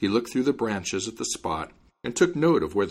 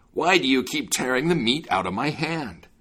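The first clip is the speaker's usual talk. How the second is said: angry giant shouting, a bit higher; furious yell; 5 semitones higher, 3 dB louder than usual. A narrator's reading. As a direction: yell it at the companion. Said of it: "yelled at him furiously".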